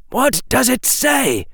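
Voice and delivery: high-pitched urgent question; demanding witch. A narrator's reading. Amelia Bones asking Harry about the scroll, high demanding witch.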